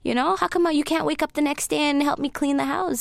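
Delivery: lightly voiced scolding mom; scolding mother. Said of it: "she basically said that".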